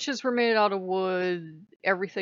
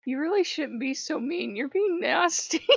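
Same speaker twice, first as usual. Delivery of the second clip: scolding god; 5 semitones higher than usual. Retold or imitated. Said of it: "been like".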